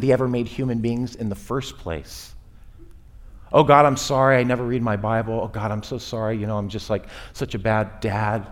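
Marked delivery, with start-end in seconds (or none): 3.5-8.5 a hint of a pleading, self-pitying sinner; mock groveling apology. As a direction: grovel lightly before an angry God. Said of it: "A lot of saying sorry".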